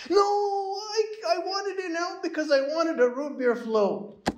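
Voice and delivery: put-on very high, insistent child's whine; a little girl refusing to give up; whiny little girl. Daughter insisting to her dad on a root beer float, high whine. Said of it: "my daughter starts crying".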